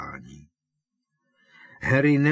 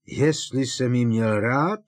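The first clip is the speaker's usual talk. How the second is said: louder, slow, rising disbelief; blurted; 3 semitones higher, 7 dB louder than usual. Acted. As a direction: burst out, stung. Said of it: "vyhrkl Křiklan". (vyhrknutí)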